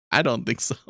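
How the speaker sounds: laughing through the repeated answer; chuckle, then say it again amused. Real, not acted.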